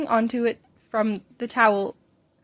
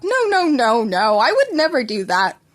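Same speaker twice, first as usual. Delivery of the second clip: louder, chuckling denial; laughing reassurance; 7 dB louder than usual. A narrator's reading. Doctor to worried mother, laughing. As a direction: laugh it off breezily. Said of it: "The doctor laughed".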